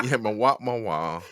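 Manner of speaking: nasal "ma, wa" sounds. Pretend. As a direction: push the sound into the nose. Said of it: "I'm very nasally".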